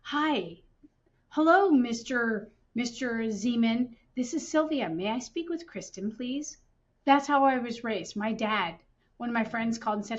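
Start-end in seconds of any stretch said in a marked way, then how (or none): 0.0-6.6 put-on polite child on the phone. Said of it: "I was raised where I would say".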